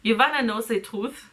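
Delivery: dramatic reading in a put-on German accent; mock German accent for a book character. Co-host opens a dramatic reading as A J, German accent. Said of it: "give him a German accent".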